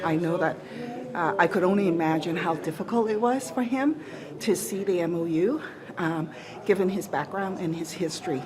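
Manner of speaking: winded from climbing stairs; breathy, catching breath between phrases. Real, not acted. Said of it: "I'm just catching my breath walking up the stairs".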